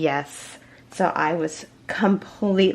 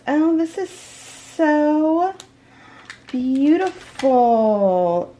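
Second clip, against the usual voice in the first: real excitement; 8 semitones higher, much slower than usual. Real, not acted. Seeing the gift wallet, thrilled and high. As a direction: gush in awe, stretching every word. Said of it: "I'm shaking".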